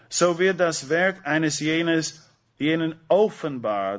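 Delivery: "So wird das Werk eines jenes, jenen offenbar" read slowly, each word weighted; emphatic slow reading. Real, not acted. Preacher to the congregation, reading the verse with slow weighted emphasis. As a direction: lean on "wird" and stretch the phrase out slowly. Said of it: "Habt ihr die Betonung auf diese Wörter".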